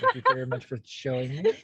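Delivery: quick mock-upspeak with "me" lifting at the end; playful upspeak. Teased host thanks partner for pointing it out, playful upspeak. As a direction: toss off the thanks, tipping "me" up.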